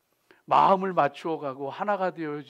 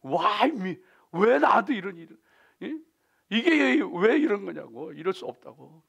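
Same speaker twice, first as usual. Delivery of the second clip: anger; 2 semitones higher, 5 dB louder than usual. Retold or imitated. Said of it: "분노가 일어나는 거예요".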